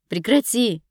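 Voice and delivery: high, loud cry to stop; yelling. A narrator's reading. Dina yelling at Ira to stop. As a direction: bellow at her to stop. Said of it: "Я уже орала".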